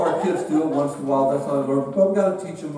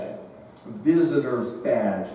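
Central California accent, slowed right down and lower; 5 semitones lower, much slower than usual. Real, not acted. Preacher catching his own slip, Central California accent. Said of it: "that Central California accent coming out".

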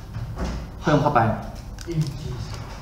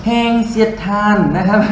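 laughing; 5 semitones higher than usual. Real, not acted. Teacher laughs mid-explanation.

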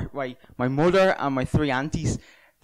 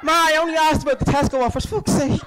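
whiny son; 11 semitones higher than usual. Retold or imitated. His own younger self answering mother.

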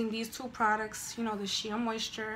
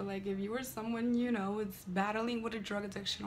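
playful imitation of an ad read; mock drug commercial. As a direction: parody a serious PSA announcer. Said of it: "I kinda sound like a drug commercial".

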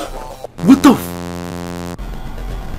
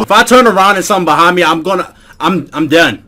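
nervous rushed; 4 semitones lower, faster than usual. Real, not acted.

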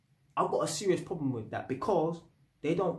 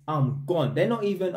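ordinary delivery

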